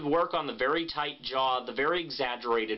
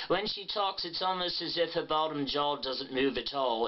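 tight-jawed Pat Quinn voice. Shown as a demonstration. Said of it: "and you have to really do that".

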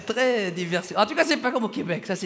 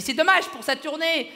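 higher-pitched woman's lament; imitated lady fan; 6 semitones higher, 3 dB louder than usual. Lady to Rachid about the tour, imitated regret. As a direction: put on a regretful lady's voice. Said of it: "Elle m'a dit".

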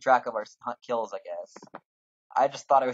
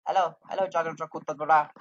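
higher, louder "Hello, hello", then Jajakuta dragged out slowly; calling a game character by name, louder; 5 semitones higher, 9 dB louder than usual. Pretend. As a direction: sing out to get the NPC's attention. Calling to an unresponsive NPC.

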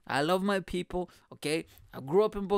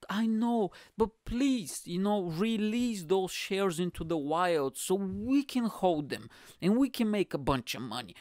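mock pleading; 2 semitones higher than usual. Billionaire begging small investors to release shares, mock pleading. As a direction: plead as if hard done by.

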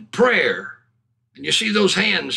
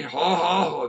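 low-key deliberate ha-has; quiet forced laugh; 4 semitones lower, 4 dB quieter than usual. Retold or imitated. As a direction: re-enact laughing so nobody hears. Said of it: "Just staying quiet".

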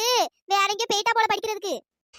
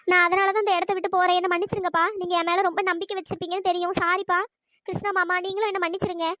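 a lightly voiced young daughter, lower, saying sorry; daughter's letter voice; 3 semitones lower than usual. Runaway daughter's letter to her parents, a light apologetic voice. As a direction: read it as the runaway girl apologising gently.

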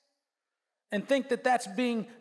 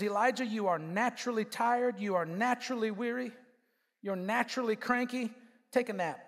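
calm God; 3 semitones lower, 4 dB quieter than usual. Acted. God answers Elijah gently.

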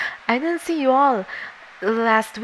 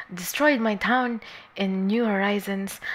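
whispered confession. Real, not acted. Making a confession.

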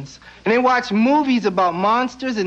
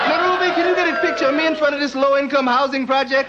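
mock tourist shout; 3 semitones higher than usual. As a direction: yell it like a tourist with a camera. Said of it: "Foreigners don't come over here and go".

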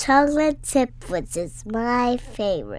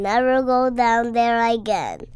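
louder, firm warning; mock yell; 6 dB louder than usual. Child retelling Mommy's warning with a mock yell. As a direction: raise the voice as Mommy scolding. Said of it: "and yelled at me".

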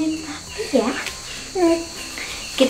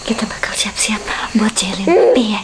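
whisper; 4 semitones lower than usual. Real, not acted. Whispering before prank.

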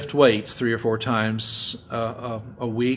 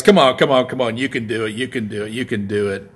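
spotter cheering on; 5 dB louder than usual. Retold or imitated. Spotter urging lifter on.

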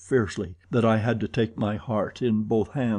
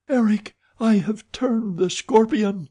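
high, raised-voice announcement; urgent cry; 11 semitones higher, 4 dB louder than usual. A narrator's reading. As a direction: call out urgently to halt him. Christine cries out to stop Eric.

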